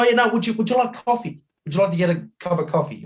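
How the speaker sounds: high, chirpy imitation of the driver; mock-friendly coffee offer, pitched right up; suddenly happy bloke. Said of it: "real sober to real happy bloke".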